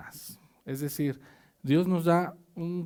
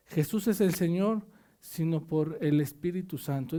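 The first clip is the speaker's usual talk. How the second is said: scripture reading. Acted. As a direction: read the verse out to the church. Reads scripture aloud to congregation. (lectura de la Biblia en voz alta)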